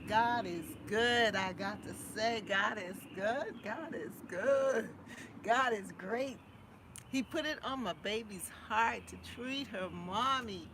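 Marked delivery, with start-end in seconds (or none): 0.1-6.4 joyful praise. Real, not acted. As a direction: testify with joy. Praising God with joy.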